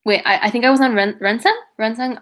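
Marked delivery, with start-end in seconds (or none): 1.2-2.2 put-on French accent. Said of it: "I just said the C H in, like, a French accent".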